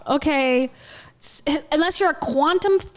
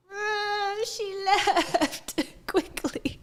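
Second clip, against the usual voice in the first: amused cooing disappointment; 7 semitones higher, 5 dB quieter, much slower than usual. Real, not acted. Cat leaves after being cooed at.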